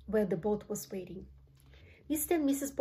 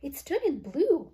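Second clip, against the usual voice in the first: high, loud, drawn-out cry of alarm; slow high wail of shock; storybook scream; 6 semitones higher, 6 dB louder than usual. A narrator's reading. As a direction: scream it slowly in horror. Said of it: "screamed Missus Beauregard".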